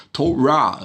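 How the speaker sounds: Torah stressed at the end, to-RAH; Hebrew Torah. Shown as a demonstration. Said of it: "a pronúncia correta é Torah".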